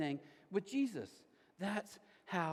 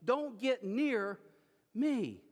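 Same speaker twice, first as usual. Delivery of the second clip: leper's yell; 5 semitones higher, much slower than usual. Pretend. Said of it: "I have to yell".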